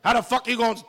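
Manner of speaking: ordinary talk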